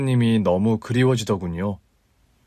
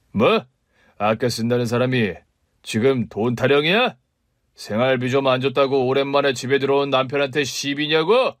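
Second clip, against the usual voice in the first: shouting husband; 2 semitones higher than usual. Acted. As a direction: yell down the wife's excuse. (아내에게 버럭 소리치는 남편)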